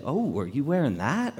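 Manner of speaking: lightly interested question, lilting up; pleasantly curious, acted question; approving take. Shown as a demonstration. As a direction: ask it as if you like the outfit. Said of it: "the way you say things matters".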